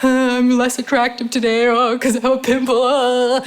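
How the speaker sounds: insecure inner voice. Retold or imitated. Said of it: "whatever old story you tell yourself".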